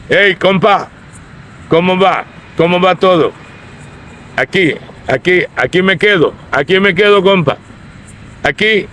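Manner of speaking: easygoing Costa Rican pachuco banter; pachuco street talk. Shown as a demonstration. Laborer greeting his compa in easy street slang. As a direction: greet like a rough street buddy. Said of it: "how they talk".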